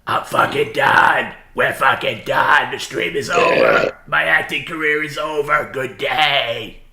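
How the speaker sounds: slow, drawn-out yelled fake voice; fake-voice scream. Shown as a demonstration. Streamer shows the donated line, slow fake-voice yell. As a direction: bellow each line slowly like a fed-up radio host. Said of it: "to do the fake voice and scream this".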